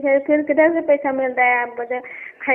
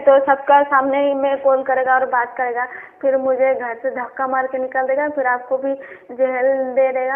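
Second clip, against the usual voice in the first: raised voice, loud protest; ज़ोर से बोलना; 3 dB louder than usual. Real, not acted. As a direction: say it too loudly for the people nearby. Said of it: "बहुत जोर से बात बोल रही है". (ज़ोर से, ऊँची आवाज़ में)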